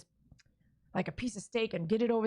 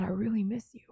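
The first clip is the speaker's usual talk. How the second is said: whispered letter. Pretend. Writing a letter to her dead dad, whispered. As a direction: breathe it like a private note.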